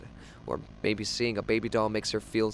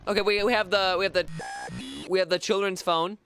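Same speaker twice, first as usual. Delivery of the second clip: excited; 7 semitones higher, 3 dB louder than usual. Real, not acted. Excited fumbling discovery.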